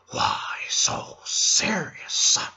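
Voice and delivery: menacing hushed villain monologue; imitating the Joker telling his scar story; Joker impression. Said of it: "he turns to me and he says".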